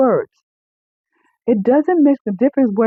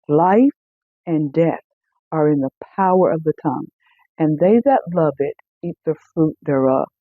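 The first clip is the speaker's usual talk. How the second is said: scripture reading; 3 semitones lower than usual. Acted. Preacher quoting Proverbs to the congregation in a scripture-reading voice. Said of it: "The Bible says in".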